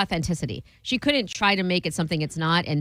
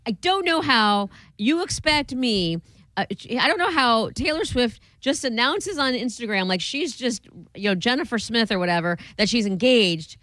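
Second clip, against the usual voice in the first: mock meltdown; 5 semitones higher than usual. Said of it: "he lost his crap".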